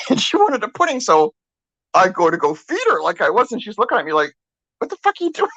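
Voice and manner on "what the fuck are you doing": high, exaggerated what-are-you-doing; mock indignant daughter. Daughter glaring at mom feeding her, high mock outrage. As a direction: play the offended patient, high. Voicing daughter's annoyed look.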